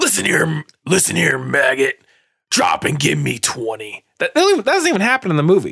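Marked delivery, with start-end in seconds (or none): 0.0-4.0 put-on tough drill-sergeant voice, much slower. Speaker repeats the line to show the tough voice, tough badass voice. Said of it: "You be a badass now".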